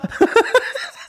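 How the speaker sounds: high, breathy burst of laughter; high unvoiced giggle. Real, not acted. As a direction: crack up at the joke. Laugh after swinger club.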